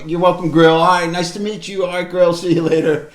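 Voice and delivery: imitated niceness. Hero being very nice to Grill as he leaves, pleasantly upbeat. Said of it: "he's very nice".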